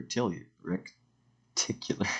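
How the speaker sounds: "rectili-" broken off, then "reticular" after a pause; stumbled pronunciation. Real, not acted. Presenter fumbling a cell biology term, "rectili-" cut short before "reticular". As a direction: trip on "rectili-", stop, then attempt "reticular". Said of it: "my pronunciation's wonky today".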